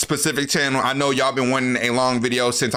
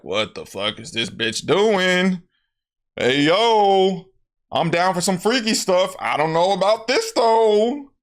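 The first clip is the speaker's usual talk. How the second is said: weirded out; 5 semitones higher than usual. Retold or imitated. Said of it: "kind of weirded out".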